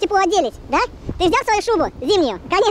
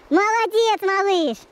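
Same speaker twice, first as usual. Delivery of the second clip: squeaky praising a dog; 3 semitones higher, much slower than usual. Real, not acted. Praising the dog after recall.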